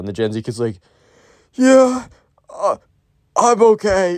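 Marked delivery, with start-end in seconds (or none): 1.5-4.2 mock barely alive, very high, very slow dragging voice. Retelling a sick kid's answer to a classmate: imitating someone sounding near death. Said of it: "in the most not okay way manner".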